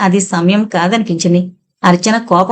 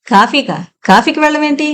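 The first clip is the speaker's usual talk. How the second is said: confused; 6 semitones higher than usual. A narrator's reading. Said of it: "అయోమయంగా అంది".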